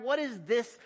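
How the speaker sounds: a worried crowd protesting; indignant crowd. Acted. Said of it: "exclaimed the crowd".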